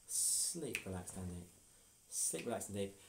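soft, slow trance induction; hypnotic voice. Acted. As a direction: lull her into sleep. Hypnotist sending to sleep.

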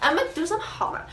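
a hint of a drained vlogger voice; tired voice. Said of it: "so I'm gonna talk like this".

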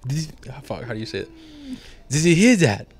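commander's voice. Retold or imitated. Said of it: "He's like".

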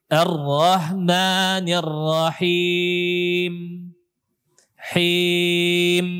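slow "Ar-Rahmanir Rahim" with the last m pressed hard and held; over-strong final mim. Shown as a demonstration. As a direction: recite it drawn out, clamping the lips on "Him". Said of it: "Itu namanya ku-, kuat".

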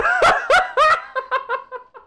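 high loud burst of laughter; shrieking laugh. Real, not acted. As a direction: crack up in disbelief. Laughs at absurd game.

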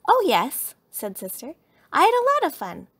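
high, loud, eager little cub. A narrator's reading. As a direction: chirp it up high to mama. Cub answers mama about her playtime.

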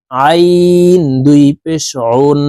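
আইন pressed from the middle of the throat; pressed ain. Shown as a demonstration. Teacher showing viewers how to press আইন from the throat. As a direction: squeeze আইন out from mid-throat, slowly. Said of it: "চাপ দিয়ে উচ্চারণ করতে হবে".

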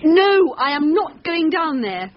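a scared, firm no, rising in pitch; frightened refusal. Acted. Wife refusing to follow husband into cellar, frightened. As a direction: she won't go near the cellar.

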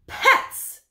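high, sharp cry of dismay; shocked exclamation. Acted. Wife exclaims at husband's pet idea, shocked. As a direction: blurt it out appalled.

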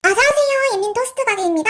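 high singsong welcome; cheery shop greeting. Acted. Toast shop owner welcoming a customer, high singsong. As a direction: call out the welcome high and bright.

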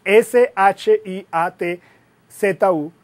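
slow, letter-by-letter spelling; dictating a word one letter at a time. Shown as a demonstration. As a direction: spell each letter out slowly and clearly. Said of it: "como se escribe".

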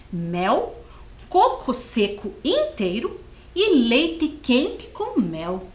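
put-on slow, lively storybook read for kids; reading to children. Teacher reads the Bob text slowly to young pupils. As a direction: read it out slowly and brightly to the class.

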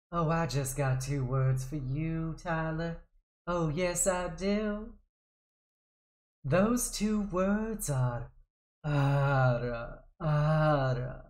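put-on low, soft teasing Southern accent; southern twang ara ara. Streamer flirting with a viewer, soft and low in a Southern accent. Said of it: "we do our ara aras with a little bit of southern twang".

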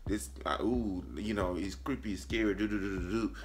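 low, soft mock spooky hum; spooky build-up. Shown as a demonstration. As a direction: hum it like horror music, lightly. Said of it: "not a foreboding effect like".

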